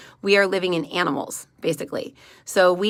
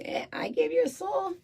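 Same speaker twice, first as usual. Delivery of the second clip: lightly voiced shrugging God; 4 semitones higher, 5 dB quieter than usual. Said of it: "God's like".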